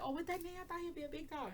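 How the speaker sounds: high, airy mock voice; mocking people. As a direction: parody the know-it-alls, up high. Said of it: "people are like".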